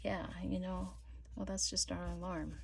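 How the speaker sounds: soft, half-whispered shrug; host shrugging off the alarm, softly; hushed offhand. Retold or imitated. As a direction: say it softly like it's nothing. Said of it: "it's like".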